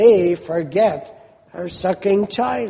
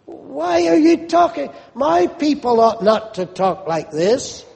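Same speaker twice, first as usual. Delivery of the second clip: higher-pitched, mildly insulted reproach; offended God; 3 semitones higher than usual. Acted. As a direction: reprove your people, lightly affronted. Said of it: "as though God is offended and God is insulted".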